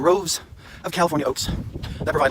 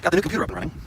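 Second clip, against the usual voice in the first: high-pitched voice; 3 semitones higher, 3 dB quieter, much faster than usual. Shown as a demonstration. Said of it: "in my best high-pitched voice".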